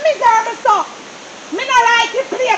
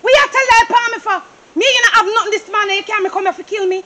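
angry shouting; 3 semitones higher, faster than usual. Acted. Wife accuses husband of lying.

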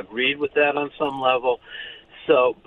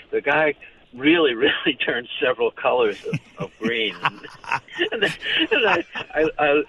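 amused laughter. Real, not acted. Laughing while telling his own joke.

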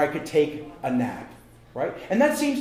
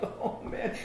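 weary groan; 4 semitones higher, 11 dB quieter than usual. Retold or imitated. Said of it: "I'm like".

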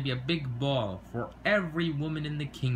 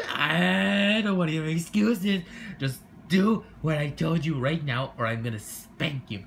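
scolding; 3 semitones higher, 3 dB louder than usual. Acted. Stepmother scolds.

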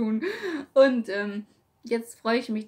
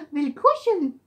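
voicing the dog; 6 semitones higher, 5 dB louder than usual.

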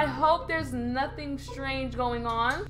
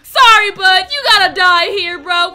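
mock sorry farewell; 12 dB louder than usual. Mock farewell while fleeing.

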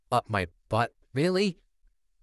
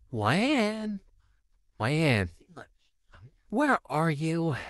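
whispered call; 4 semitones higher, much slower than usual. Acted. Calling for missing child.

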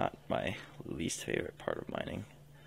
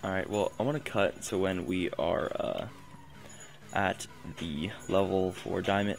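robot voice. Real, not acted. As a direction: talk like a flat robot. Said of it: "Why am I talking like a robot?".

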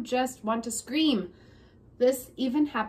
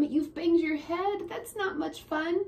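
mom's voice; 5 semitones higher than usual. Acted. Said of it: "says my mom".

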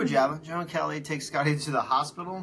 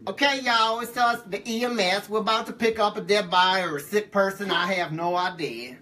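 Willie Flan; 3 semitones higher than usual. Acted. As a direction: put on a folksy EMS guy, pitched up at the start. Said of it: "I'm gonna do the Willie Flan voice".

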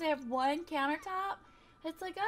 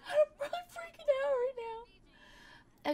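mock panicked speech. Voicing sim's toast speech.

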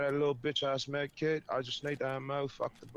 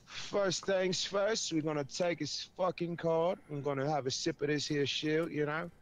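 loosely held mock British accent, a touch higher; 4 semitones higher, 5 dB louder than usual. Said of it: "the British accent".

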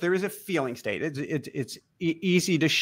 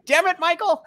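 put-on higher, louder exasperated old man, laughing; fond mock exasperation, laughing; 13 semitones higher, 5 dB louder than usual. Imitating late friend Jack scolding Michael fondly, laughing. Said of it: "he says the same thing".

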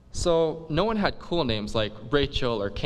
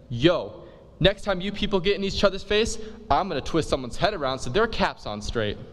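stern principal warning; 5 semitones higher than usual. Acted. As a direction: threaten like a fed-up principal. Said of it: "He says".

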